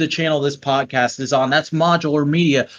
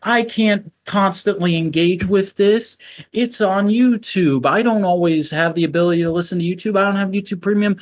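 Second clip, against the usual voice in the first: higher-pitched griping listener impression; mock whining; 5 semitones higher than usual. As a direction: imitate a complaining audience member. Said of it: "You're complaining, you're whining, you're griping".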